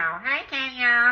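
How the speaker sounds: put-on, mimicked nasal voice. Retelling a woman coming downstairs to greet Kenya, imitating her nasally voice. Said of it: "she got that nasally voice".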